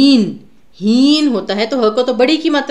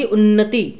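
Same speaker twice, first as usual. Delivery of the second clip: उन्नति with the double न pressed; उन्नति, doubled न held; pressure on न्न; slower than usual. Shown as a demonstration. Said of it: "मतलब ज़्यादा प्रेशर आया है".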